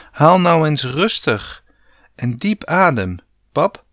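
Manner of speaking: a touch of fear as she begs her father; trembling little voice. A narrator's reading. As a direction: daughter mildly shaky, urging her dad to breathe. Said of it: "zei Sanne met een bibberig stemmetje".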